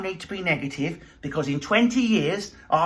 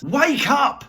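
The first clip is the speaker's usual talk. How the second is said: loud, high call to wake up; mock shout; 7 semitones higher, 5 dB louder than usual. Ranting comic yelling at the audience, in a loud high shout. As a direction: bark it at the crowd.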